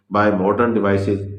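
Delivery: very slow, word by word, as if dictating notes; slow heading read. Shown as a demonstration. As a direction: spell out the heading slowly so students can write it. Reading out a heading slowly. (धीरे धीरे शीर्षक लिखवाना)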